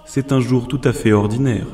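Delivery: soft, lightly voiced philosophical killer; masked artist musing. Jin lectures the boy on art, soft musing voice. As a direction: muse quietly as a cold artist. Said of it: "demanda-t-il".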